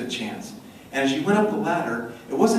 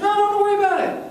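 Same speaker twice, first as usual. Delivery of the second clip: high, quick, dismissive wife; high airy brush-off; 3 dB louder, faster than usual. Retold or imitated. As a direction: wave it off lightly and fast. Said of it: "She goes".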